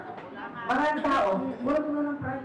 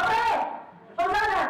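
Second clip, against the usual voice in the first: mock tired whine; 12 semitones higher than usual. Imitating a tired commuter after a long day, high whiny voice. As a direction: squeal it like someone drained after work.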